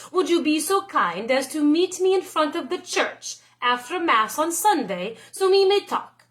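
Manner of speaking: lightly voiced gallant letter; letter in nobleman's voice. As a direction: read it like a polite young lord.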